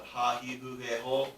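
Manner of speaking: ha, he, hu, he, ho with a clear breathy h; breathed h syllables. Shown as a demonstration. Teacher sounding out breathed syllables for students. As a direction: push air on each ha, he, hu, he, ho. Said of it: "a breathed one".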